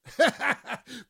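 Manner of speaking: real burst of laughter, high; short laugh. Real, not acted. DJ laughing at his dig at the movie show, a real chuckle. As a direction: laugh at your own joke.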